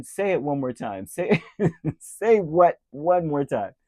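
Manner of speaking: loud, high, slow menacing challenge; Samuel Jackson. Retold or imitated. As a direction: dare them to say it again. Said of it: "Samuel Jackson in Pulp Fiction".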